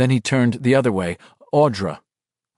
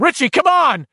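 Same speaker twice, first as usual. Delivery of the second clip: high, loud pleading shout; desperate shouting; 5 dB louder than usual. A narrator's reading. Ben trying to wake Richie, desperate shout. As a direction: yell him awake.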